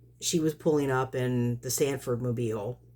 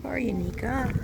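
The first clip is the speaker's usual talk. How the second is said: higher, searching pet call; calling the cat; 9 semitones higher than usual. Real, not acted. Woman looking for her cat Nika, high gentle call. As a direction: call gently in a raised pitch.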